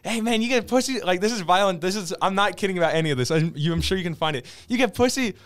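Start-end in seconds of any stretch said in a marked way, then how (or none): 0.0-1.0 hammed-up celebrity video message; a rapper. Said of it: "and then he's like". 4.7-5.3 high-pitched, hammed-up outburst; imitated despairing rant; a rapper. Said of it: "and then he's like".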